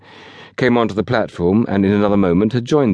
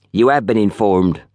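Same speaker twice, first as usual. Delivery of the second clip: lightly voiced testy old man; snappish old porter. A narrator's reading. Old porter answers the station master, snappish. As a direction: snap it like an irritable old porter. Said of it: "snapped the second porter".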